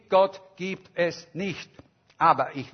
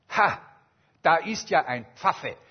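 louder, scornful jeer at the pastor; mock hostile call; 4 dB louder than usual. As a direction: call him out with contempt. Hostile strike speaker mocks pastor.

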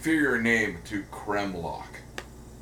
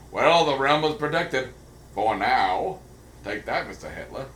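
1930s cartoon voice; 4 dB louder than usual. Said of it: "I'm doing it in the nineteen thirties voice".

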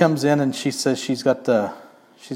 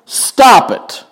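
mock stern refusal; 11 semitones higher, 8 dB louder than usual. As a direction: cut her off, then stretch the order. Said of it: "he's like".

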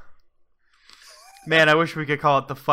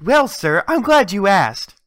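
slightly higher salesman pitch; infomercial; 3 semitones higher than usual. Pretend. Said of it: "throughout the entire advertisement".

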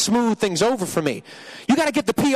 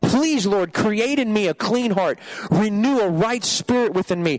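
pleading prayer, steady and sincere; earnest prayer; 2 semitones higher than usual. Acted. Preacher to God for a clean heart, earnest prayer. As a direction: pray it as a plea for a clean heart.

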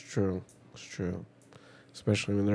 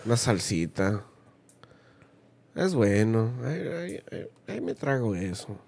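grandpa impression; 4 semitones higher than usual. Imitating grandpa's food talk.

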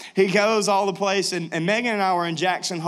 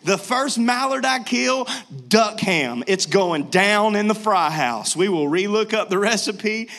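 excited. Retold or imitated. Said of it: "But I was really excited".

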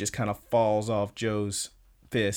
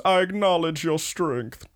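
mock rival's farewell; 7 semitones higher than usual. Imitating Mikio's parting line.

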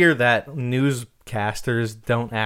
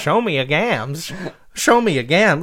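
lightly voiced flapper attack call; a hint of a fighting-game flapper; flapper fighter catchphrase; 4 semitones higher, 3 dB louder than usual. Imagining a flapper fighter's attack catchphrase, lightly acted. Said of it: "Mortal Kombat fighter ... a flapper".

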